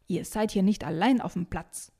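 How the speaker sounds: mild grumpy scolding; understated irritated telling-off; grumbling. Acted. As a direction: grouse at noisy children. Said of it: "motzt sie".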